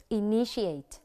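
Initiate stressed on NI, falling at the end; i-NI-ti-ate, second syllable stressed in Initiate. Shown as a demonstration. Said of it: "nhấn ở âm tiết thứ hai".

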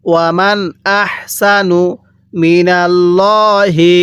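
slow, drawn-out tajweed chant; Quran recitation. Shown as a demonstration. Teacher recites the verse for students, slow tajweed chant. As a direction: intone each syllable slowly like a reciter. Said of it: "আরেকবার পড়ুন".

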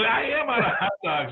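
high, emphatic reply with a laugh in it; retold desperation. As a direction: stress AM, voice leaping up.

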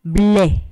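ble said as one clear beat; ble, three sounds in one push of voice; syllable demo. Shown as a demonstration. Teacher giving students a syllable example, crisp beat. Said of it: "se pronuncian en un solo golpe de voz".

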